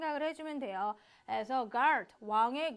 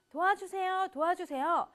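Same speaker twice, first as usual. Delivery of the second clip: cries for help; 4 semitones higher than usual. Shown as a demonstration. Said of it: "다급하게 외치는 모습".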